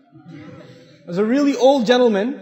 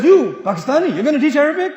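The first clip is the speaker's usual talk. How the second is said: mocking laugh; 6 semitones higher, 6 dB louder than usual. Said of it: "comes to me and says".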